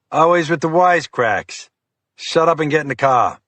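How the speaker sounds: irritated agent losing patience; exasperated FBI agent. Acted. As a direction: snap the order at a wisecracking cop. Fiore snaps at detective.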